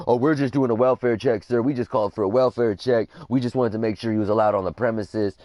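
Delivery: imitating a polite, placating cop; all polite. Retold cop explaining the welfare check to dad, polite. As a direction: reel off the excuse courteously, a little quickly. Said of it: "gets all polite".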